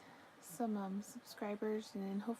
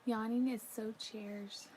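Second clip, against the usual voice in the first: normal talking voice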